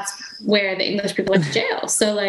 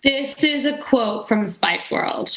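whispering; slower than usual. Pretend. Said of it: "whispers in shared awe".

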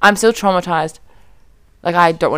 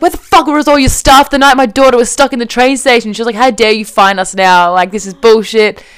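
retold angry rant; mum losing it; 4 dB louder than usual. Mum berates the ticket inspector over the fine, irate. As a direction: imitate a mother telling someone off. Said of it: "my mum lost it".

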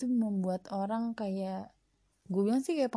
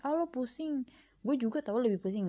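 higher-pitched mock one-upmanship; one-upping comparison; 4 semitones higher than usual. Podcaster mimics comparing troubles with a friend, mock one-upping. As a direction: top their complaint with your own, pitched up at the start. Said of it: "bukan membandingkan kayak".

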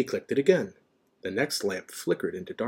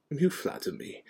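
mild, modest reply, slightly raised; calm; 6 semitones higher than usual. A narrator's reading. Dumbledore deflecting McGonagall's praise, calm. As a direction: brush off praise calmly. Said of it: "said Dumbledore calmly".

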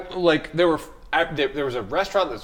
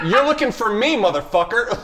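cocky challenge; 5 semitones higher than usual. Retold or imitated. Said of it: "I didn't say motherfucker".

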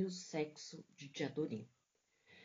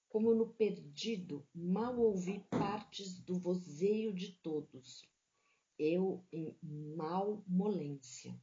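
literary reading. A narrator's reading. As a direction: read it like a mournful novel passage. Literary reading of Grande Sertão.

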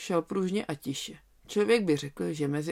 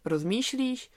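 rozmýšlíš repeated with a higher questioning rise; incredulous echo; 6 semitones higher, slower than usual. Acted. Lamb echoes the hesitating wolf in disbelief. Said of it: "tak se rozmýšlíš".

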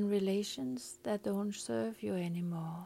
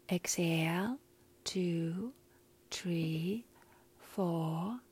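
slow breath counting; much slower than usual. Shown as a demonstration. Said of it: "So I will count to a four".

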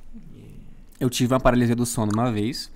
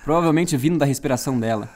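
announcer voice. Acted. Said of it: "Adorei a voz de locutor".

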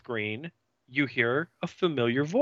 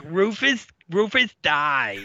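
high put-on girly voice, louder; Tammy voice; 4 semitones higher, 3 dB louder than usual. Tammy greeting Angel in a high put-on voice. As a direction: play the peppy slayer, pitched way up. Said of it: "And she's like".

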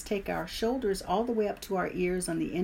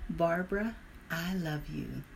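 tender affirmation. Shown as a demonstration. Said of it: "Squeeze and smile".

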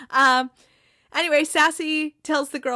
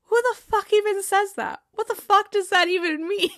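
higher, louder mock outrage as Jamie; Jamie, stunned Roy said it, in higher, louder mock outrage; outraged Jamie; 9 semitones higher, 4 dB louder than usual. Jamie outraged at Roy's word.

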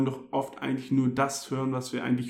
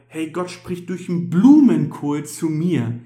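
amazed exclamation; 2 semitones higher, 8 dB louder than usual. Retold or imitated. Voicing his own amazed thought.

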